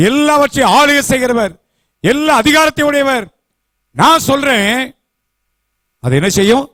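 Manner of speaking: preaching God's words. Acted. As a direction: thunder the promise from the pulpit. Preacher voices God's promise.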